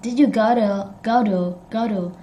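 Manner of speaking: "go to" run together as go-duh; American reduced "to". Shown as a demonstration. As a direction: soften "to" into a weak duh. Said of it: "kind of like American accent".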